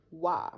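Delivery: "wa" said with open ah, r dropped; Texan wa. Shown as a demonstration. Presenter shows Texan word, "wa" drawled. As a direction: say "wa" the Texas way. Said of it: "Instead you say wa".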